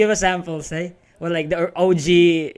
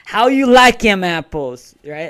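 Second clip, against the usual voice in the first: New York accent attempt; 3 semitones higher, 8 dB louder than usual. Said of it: "I think I did that wrong".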